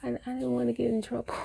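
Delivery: put-on a kid rushing to say she's fine; child calling out.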